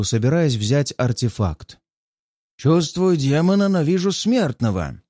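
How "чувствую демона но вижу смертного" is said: raised, rasping demon skull; hoarse skull voice. Acted. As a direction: croak it out like a cursed skull. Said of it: "раздаётся хриплый голос".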